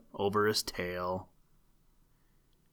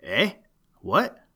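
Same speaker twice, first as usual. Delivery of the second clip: hoarse duck; 3 semitones higher, 5 dB louder than usual. A narrator's reading. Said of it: "quacked the duck in his hoarse voice".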